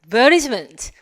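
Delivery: "advertisement" as ad-VER-dis-ment; Australian "advertisement" with flapped t; Australian pronunciation. Shown as a demonstration. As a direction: stress VER in "advertisement", soften the t. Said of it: "호주 발음까지".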